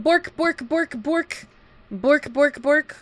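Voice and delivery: high playful barking; dog bork voice. Pretend. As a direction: bark the words like a puppy.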